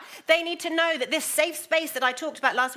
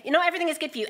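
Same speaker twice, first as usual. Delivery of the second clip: "not" pitched higher and pushed out; emphasis on not; 6 semitones higher, 3 dB louder, much faster than usual. Shown as a demonstration. Preacher repeating Paul's warning, stressing "not". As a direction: stress the word "not" firmly. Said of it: "said it with that emphasis".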